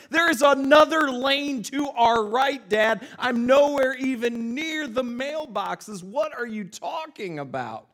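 high, slow exasperated protest; freaking out. Retold or imitated. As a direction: imitate a teen yelling back at dad. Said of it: "I'm, like, freaking out".

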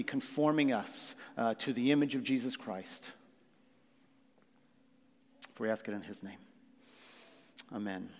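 measured, reverent prayer, softening at the close. Real, not acted. Pastor asking blessing on the service, prayerful.

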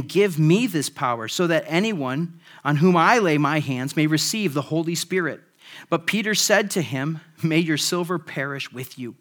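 measured, steady Bible reading to the congregation; scripture reading. Acted. Pastor reading Acts to the congregation, measured and steady. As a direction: read it out like Scripture. Reads Acts passage aloud.

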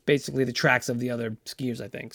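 cracking voice trailing off. Real, not acted. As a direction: voice breaking up and fading. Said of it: "Sorry, my voice is cracking".

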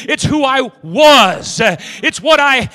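slow, emphatic preaching, every word hammered. Acted. Preacher to the congregation, slow hammering preaching. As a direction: drive each phrase home to the church.

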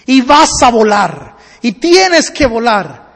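slow, weighty declaration; deliberate, insistent urging; solemn command. Acted. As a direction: drive each phrase home slowly. Man solemnly commands the eagle.

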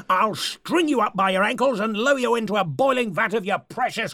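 rising villainous threat; menacing threat. Acted. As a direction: threaten him, building in force. Leader threatens interrupter.

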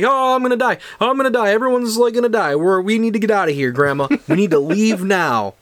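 high, urgent mock panic; high pleading kid voice; panicking kid. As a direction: beg grandma to leave. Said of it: "So I'm like".

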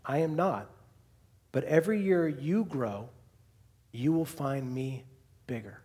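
lightly voiced wise lion; Aslan. Lion answering the child's question, measured and gentle. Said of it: "And Aslan goes".

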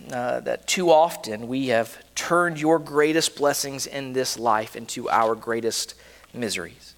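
earnest, measured pastoral prayer. Real, not acted. Pastor leading his congregation in closing prayer, reverent. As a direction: pray it humbly and steadily.

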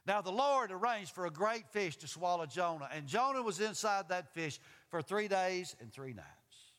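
measured, projected Bible reading; scripture reading. A narrator's reading. Preacher reading the great fish verse to the congregation, measured and projected. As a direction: read the verse out deliberately.

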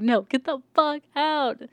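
high, slow shouted refusal; acted-out yell, stretching the words; retold yell. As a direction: wave them away with a drawn-out shout. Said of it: "yell at her".

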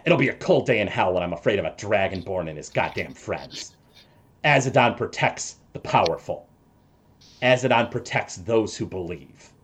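lightly voiced smirking cultist, fast; a cocky, dismissive brush-off; quick sneering boast. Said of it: "Hank sort of smirks down".

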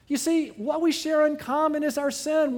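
ordinary talk, nothing marked

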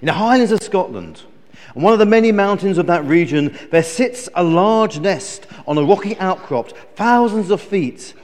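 lively, emphatic storyteller; animated children's story narration; storytelling. Acted. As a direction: draw children into a grand tale.

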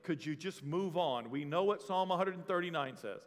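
low, weary mock reply; a hint of a fed-up congregation; bored congregation. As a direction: sigh it like a tired listener. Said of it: "It's like".

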